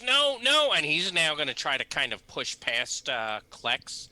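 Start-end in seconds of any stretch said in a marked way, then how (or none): 0.0-0.7 high, loud pleading no; panicked old man; frightened father. Acted. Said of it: "He goes".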